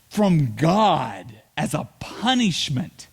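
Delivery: slow, hushed ominous whisper; dramatic whisper. Acted. Preacher telling the congregation about God's punishment, slow whisper. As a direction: breathe it out like a dire secret.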